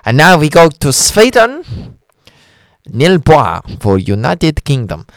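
slow, lightly mock contest announcer; Eurovision announcer. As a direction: read out the votes like a Eurovision host, slowly. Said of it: "how they would say it".

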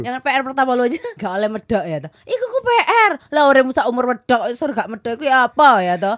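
thick Javanese lilt, retold; medok Javanese accent. Surabaya broadcaster imitating his boss, medok Javanese accent. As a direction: mimic a Surabaya radio boss pushing medok. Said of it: "Terus saya disuruh medok".

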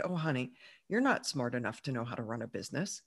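low, soft, patronizing father voice; a hint of a dismissive dad, quiet and low; condescending dad. Dad dismissing her ambition.

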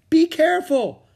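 high, loud cry of caution; shouted warning. Acted. Jack warns Annie out on the cliff, shouted warning. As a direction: call out a warning.

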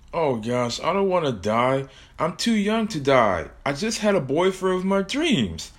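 scared, rising whine; frightened girl. Acted. Hannah alone, afraid.

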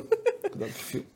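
whispered echo. Retold or imitated. Echoing the warning.

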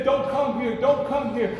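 a touch of hushed pleading; pleading souls. Acted. People in hell pleading with the living, mild hushed plea. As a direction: beg them not to follow you down. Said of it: "They say".

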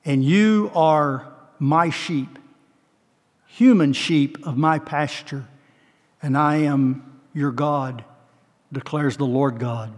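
slow, lightly voiced Savior, tender. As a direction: speak as the shepherd to his sheep. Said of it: "hear the voice of the Savior saying".

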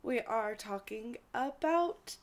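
forced enthusiasm. Real, not acted. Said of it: "trying to put as much inflection".

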